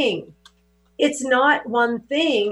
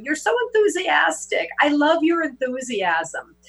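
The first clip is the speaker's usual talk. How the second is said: quoted gushing compliment; 5 semitones higher than usual. Retold or imitated. Quoting admirers' compliments on her enthusiasm.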